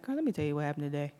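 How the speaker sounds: casual imitation of a homegirl. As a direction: toss it off quickly like a friend with news. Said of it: "sounds like your homegirl coming in".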